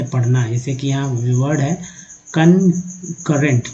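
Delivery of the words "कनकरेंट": कनकरेंट said slowly, kan-ka-rent, syllable by syllable; slow careful pronunciation. Shown as a demonstration. Teacher showing students how to read the word, slow and careful. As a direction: spell out कनकरेंट slowly for the class. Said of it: "कनकरेंट यहाँ पढ़ेंगे कनकरेंट".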